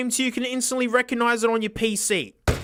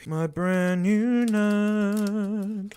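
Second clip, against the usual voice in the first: mock advert voice; much slower than usual. Mock ad voice for product.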